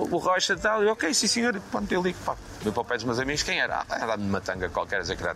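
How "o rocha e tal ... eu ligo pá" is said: high mock phone voice. Imitating himself on phone call.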